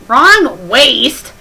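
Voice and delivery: loud, high WRONG waist; shouted correction. Real, not acted. Reader shouting at the wrong waist spelling. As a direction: yell Wrong waist at the text.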